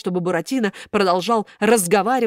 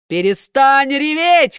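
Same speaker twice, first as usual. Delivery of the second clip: loud, slow, higher barking shout; angry shout; 7 semitones higher, 7 dB louder, slower than usual. A narrator's reading. Karabas shouts at the wailing puppet. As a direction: shout him down. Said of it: "крикнул Карабас-Барабас".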